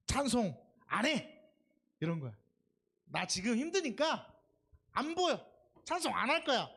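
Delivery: defiant protest. Retold or imitated. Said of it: "막 이렇게 대드는 거야".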